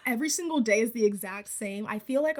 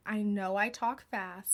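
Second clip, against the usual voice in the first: slower on purpose; 4 dB quieter, slower than usual. Real, not acted. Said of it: "gonna try and slow it down".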